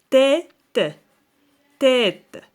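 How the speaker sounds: loud, deliberate dictation of each syllable. Shown as a demonstration. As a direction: sound out each syllable for a class. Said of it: "puis écris le nombre de syllabes".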